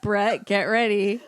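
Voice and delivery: cracking up while announcing it; giggling between the words; laughing. Real, not acted. Laughing warning about friend's accents.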